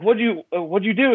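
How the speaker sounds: high, eager questioning; high, excited teacher pressing the student. Retold or imitated. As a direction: pitch jumps up, thrilled and curious. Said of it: "I was like".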